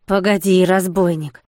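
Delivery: put-on a bellowing threat at the old man; roaring monk. Monk roars at the thief Jean Bernat, furious. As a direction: roar it out, fists clenched. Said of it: "заревел монах".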